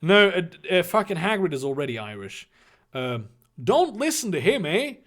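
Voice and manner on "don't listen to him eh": higher-pitched, hammed-up Canadian "eh?"; cartoon Canadian accent; overdrawn Canadian accent. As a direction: overdo a Canadian accent, tag question rising. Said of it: "overdrawn Canadian accent".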